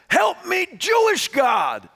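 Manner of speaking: high, drawn-out loud plea; screaming for help. Retold or imitated. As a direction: cry out desperately, stretching the last words. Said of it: "he's screaming".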